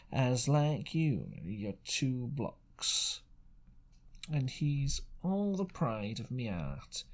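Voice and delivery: fish for information with a sly pirate voice; sly seafaring stranger. Acted. Stranger's speech in story.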